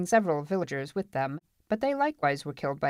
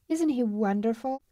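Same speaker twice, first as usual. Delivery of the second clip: put-on higher, dreamy girl's voice; admiring girl; 7 semitones higher than usual. Marla admires Larrick aloud, dreamily. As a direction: gush gently over the newcomer.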